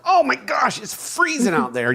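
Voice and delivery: whiny mock complaint. Husband mocking the family's cold complaints, in a high whiny voice. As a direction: mimic a spoiled kid griping about the cold. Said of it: "you come outside and go".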